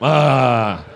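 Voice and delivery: long loud 'ah', hammed up; loud put-on 'ah'. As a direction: let out a big mock-obedient ah. Rehearses happy compliant reaction.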